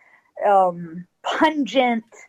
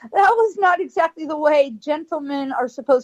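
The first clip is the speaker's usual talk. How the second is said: tearful; 4 semitones higher than usual. Real, not acted. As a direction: voice breaking with tears. Tearful recalling of encounter.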